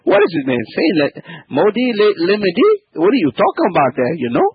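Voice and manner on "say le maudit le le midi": Cajun French. Pretend. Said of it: "I like that Cajun accent".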